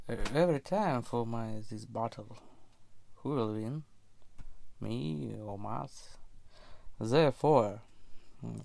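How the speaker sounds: lo-fi voice recorder sound; diary read into a dictaphone; dictaphone recording. Real, not acted. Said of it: "Recording on a voice recorder".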